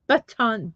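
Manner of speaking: BUTTON with a full second vowel, BUH-tahn; sounded-out button. Shown as a demonstration. Streamer correcting viewers, button sounded out as BUH-tahn. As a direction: open up the end of button into TAHN.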